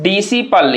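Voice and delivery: डिसिपल as "di-si-pal"; डिसिपल, one S sound in the middle; silent C. Shown as a demonstration. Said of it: "इसको हम लोग क्या पढ़ते हैं".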